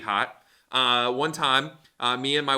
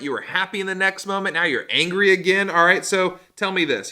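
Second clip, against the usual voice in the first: lightly voiced God scolding; 3 semitones higher, 4 dB louder than usual. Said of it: "and he's like".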